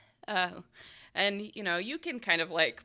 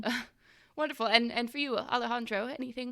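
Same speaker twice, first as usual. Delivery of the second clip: higher-pitched polite hostess; fluttery tea hostess; 6 semitones higher, faster than usual. Acted. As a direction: turn to the next guest in a high voice. Kathy asks next guest.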